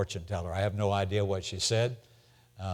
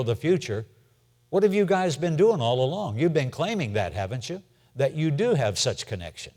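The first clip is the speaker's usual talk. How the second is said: mock Nebuchadnezzar. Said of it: "if I was Nebuchadnezzar".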